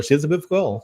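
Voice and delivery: put-on British "beautiful girl" run into a blur; swallowed T in British "beautiful"; imitated British accent. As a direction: repeat it as the unintelligible British friend. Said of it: "Aí ele falou".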